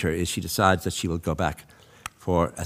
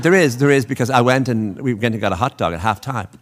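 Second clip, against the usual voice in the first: louder, higher, pressing the point; insistent protest; 4 semitones higher, 7 dB louder than usual. Retold or imitated. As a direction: insist hard you are right, raising your voice. Insisting to the editor on baseball.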